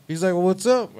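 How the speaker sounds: put-on high excited kid voice; excited local kid. Gas station kid to the singer, high and excited.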